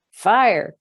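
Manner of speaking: high, loud cry of alarm; full loud fire alarm cry. Acted. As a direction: shout it as the house fills with smoke. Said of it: "cried Missus Prothero".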